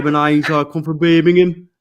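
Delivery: mock Birmingham accent, as if the nose is blocked. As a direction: doe een Birmingham-accent na met een verstopte neus. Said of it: "'cause they all sound as though they got blocked up noses".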